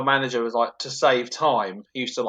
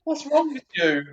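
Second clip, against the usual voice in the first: exasperated sigh of thought; 8 semitones higher, 5 dB louder, slower than usual. Retold or imitated.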